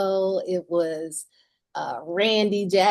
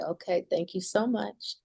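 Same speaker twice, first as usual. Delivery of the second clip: tearful thanks; 9 dB quieter than usual. Retold or imitated. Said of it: "I start crying".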